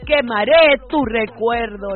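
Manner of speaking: telenovela villain grandeur; husband hams up his farewell; melodramatic vow. Retold or imitated.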